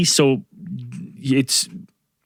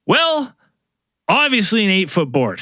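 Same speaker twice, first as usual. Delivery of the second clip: high, smug well; lightly hammed-up smugness; mock obviousness; 4 semitones higher than usual. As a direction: act as if it's obvious. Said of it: "And I go".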